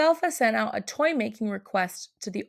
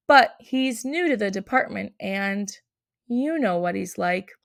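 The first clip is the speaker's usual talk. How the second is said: head elf's letter. Acted.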